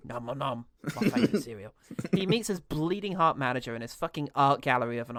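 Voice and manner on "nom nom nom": mock munching. Acts out eating toenails.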